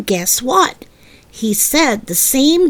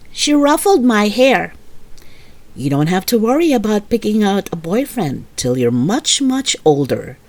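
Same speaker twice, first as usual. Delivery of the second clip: patient mother; 4 semitones lower than usual. Acted. Mother kindly explaining an expression to her daughter, lower and patient. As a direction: explain it calmly to a small child.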